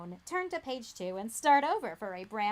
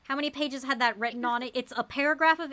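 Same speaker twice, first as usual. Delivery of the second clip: exasperated laughing rant; 2 semitones higher, 3 dB louder, faster than usual. Real, not acted. Loud laughing complaint.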